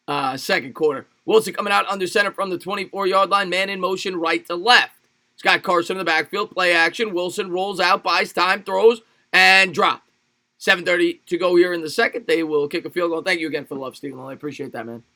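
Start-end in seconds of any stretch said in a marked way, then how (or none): 1.2-12.3 running football commentary, punching the result; live play-by-play. Real, not acted. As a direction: call the play as it unfolds. Calls the game live.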